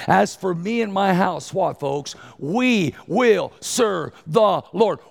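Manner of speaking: rising, drawn-out proclamation; preaching vow. Acted. Preacher proclaiming Joshua's vow to the congregation, slow and loud. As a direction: proclaim it slowly, full voice.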